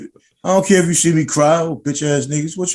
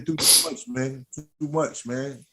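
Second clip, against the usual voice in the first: quiet emotional; 5 dB quieter than usual. Real, not acted. Talks of overcoming hardship.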